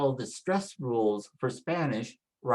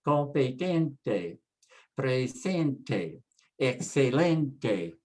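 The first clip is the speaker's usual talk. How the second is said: competente, presente, excelente stressed on TEN, SEN, LEN; Spanish competente, presente, excelente, each ending in an unstressed TEH; stress next-to-last; much slower than usual. Shown as a demonstration. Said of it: "with the stress next to the last".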